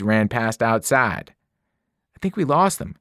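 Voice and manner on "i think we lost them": panting. A narrator's reading. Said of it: "Grover panted".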